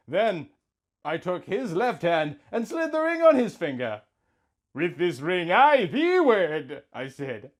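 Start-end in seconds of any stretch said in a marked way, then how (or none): 4.7-6.8 tender vow. Acted. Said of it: "as I looked deeply into his eyes".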